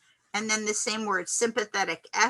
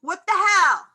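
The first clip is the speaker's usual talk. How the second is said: sudden raised what-the-hell; shocked outburst; 6 semitones higher, 7 dB louder than usual. Retold or imitated. Rear-ended driver at a light, shocked outburst. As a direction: blurt it out, caught off guard. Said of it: "and you're like".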